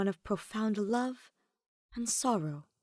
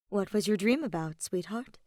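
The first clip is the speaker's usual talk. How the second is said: gentle question. Acted. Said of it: "Edelgard asked gently".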